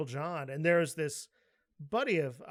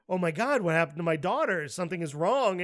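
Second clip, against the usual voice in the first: retold panic; 5 dB louder than usual. Retold panic about his daughter.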